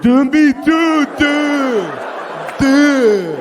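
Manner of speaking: stammering high yell; choking on rage mid-yell; furious yell. Retold or imitated. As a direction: shout it, tripping over the words. Yelled at the man he hates.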